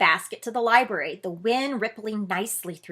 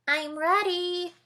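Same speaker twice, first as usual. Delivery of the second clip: little mouse; 9 semitones higher, slower than usual. Acted. Mouse speaks.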